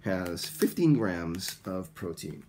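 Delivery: deliberate, clearly enunciated English for repetition; slow model sentence. Shown as a demonstration. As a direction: say it slowly in separate phrases for students. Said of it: "Please listen and repeat one more time".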